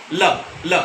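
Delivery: ल with the tongue slapped down once; flapped l demo. Shown as a demonstration. Teacher shows the tongue striking on ल. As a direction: strike ल hard and let the tongue snap back. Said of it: "जब हम बोलते हैं ल".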